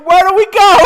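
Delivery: loud, high laughing squeal; excited squeal. Pretend. Giddy fan squealing at the idea of a band visiting.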